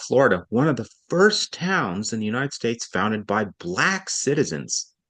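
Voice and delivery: Black given weight; founded by BLACK citizens; stress on Black. Shown as a demonstration. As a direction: lean on Black. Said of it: "I had to make a decision here to emphasize Black".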